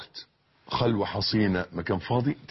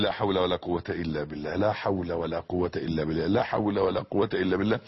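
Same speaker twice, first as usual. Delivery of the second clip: slow counted recitation; 3 semitones lower than usual. Shown as a demonstration. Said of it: "فأبدأ أقول".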